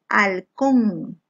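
"Halcón" sounded out in two syllables; teacher's careful split of "Halcón". Shown as a demonstration. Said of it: "separa en sílabas".

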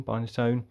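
Binatone with a long "eye" in the first syllable; settled pronunciation. Real, not acted. Vlogger settling on the console's name, Binatone said as BINE-a-tone. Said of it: "Is it Binatone or".

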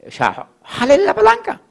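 urging someone to jump, voice shooting up; calling out. Retold or imitated. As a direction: call out to pull the lever. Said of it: "Que alguien coja y le diga".

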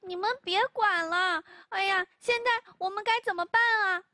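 a touch of anxious urgency; mildly flustered boy pleading; anxious hurry. Acted. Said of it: "莫里斯着急地说". (略带着急地说)

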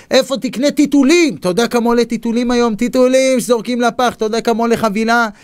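high, hurried run of worried questions; retold exasperated harangue; agitated lecturing. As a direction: pile up the costs like a know-it-all big brother. Older brother's retold anxious lecture.

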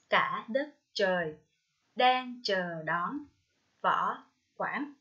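"Ai dậy sớm" read very slowly, then a clear breath pause; pause after each line. Shown as a demonstration. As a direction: draw out each line, "Bước ra vườn", stopping before the next. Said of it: "hơi sau mỗi câu thơ". (đọc chậm, ngắt hơi sau "hoa ngát hương" và từng câu)

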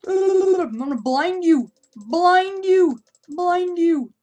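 high loud attack shout; loud triumphant taunt; battle shout. Real, not acted. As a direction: yell as you charge. Attacking the enemy.

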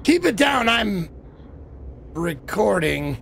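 mimicked line, sinking low and drawn out at the end; imitating a game character. Player mocking how he said that, imitating a game character. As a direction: mimic his delivery, dropping low on a slow last word. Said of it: "The way he said that".

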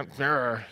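short mock growl of anger; understated angry "grr". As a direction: growl briefly in mock frustration. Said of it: "you know, angry response".

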